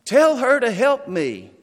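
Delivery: frustrated demand. Acted. Martha to Jesus, a sharp frustrated demand. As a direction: Martha demanding Jesus send her sister. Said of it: "she's getting loud about now".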